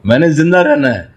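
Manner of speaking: half-voiced plea of a screaming body cell; mock cry. Every cell crying out to live after four airless minutes, mild mock cry. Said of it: "ایک ایک cell چیخ کے کہے گا".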